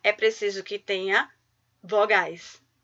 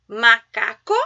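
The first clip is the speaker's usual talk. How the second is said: "macaco" with ma, ca, co evenly set apart; measured syllables; 2 semitones lower, 4 dB louder, slower than usual. Shown as a demonstration. Teacher setting a counting challenge, "macaco" in measured syllables. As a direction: sound out each syllable of "macaco". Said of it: "Quantos impulsos de voz eu realizei".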